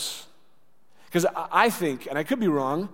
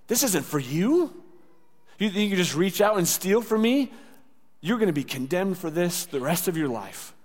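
condemning; 3 semitones higher than usual. Acted. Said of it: "he's gonna take away the healing".

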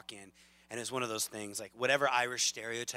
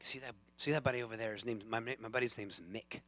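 quick attempt at an Irish accent; 5 dB quieter than usual. Pub musician pointing out his buddy, quick Irish accent. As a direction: hurry it along in an Irish lilt. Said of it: "It's my best Irish accent".

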